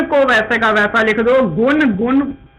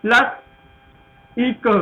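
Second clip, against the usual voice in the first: प्लस इक stretched out very slowly; slow classroom dictation; much slower than usual. Shown as a demonstration. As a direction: spell out प्लस इक piece by piece. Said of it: "इतिहास".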